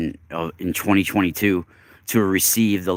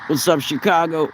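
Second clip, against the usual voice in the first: excited greeting; 9 semitones higher than usual. Real, not acted. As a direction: hype up the crowd. Greeting viewers loudly.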